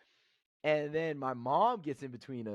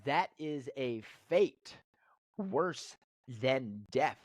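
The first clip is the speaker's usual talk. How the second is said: comedic quote; slower than usual. Retold or imitated. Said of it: "comedically said".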